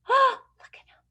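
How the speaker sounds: high gasping look; surprised gasp. Acted. Teacher showing the kids the angry bear, high gasp. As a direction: gasp like you've seen something scary. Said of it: "reacting to angry bear".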